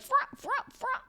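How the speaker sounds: high imitated scratch bursts; short vocal turntable scratches; record-scratch imitation. Shown as a demonstration. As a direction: mimic a DJ scratching discs. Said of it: "when you, like".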